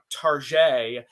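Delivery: Tarjay said slowly as tar-ZHAY; mock-French pronunciation. Joking French-style name for Target.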